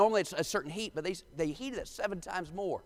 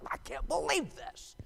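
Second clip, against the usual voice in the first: strained, indignant sputter of an offended king; mock irate king; 4 semitones higher than usual. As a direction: act out a livid king's disbelief. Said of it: "He's irate beyond expression".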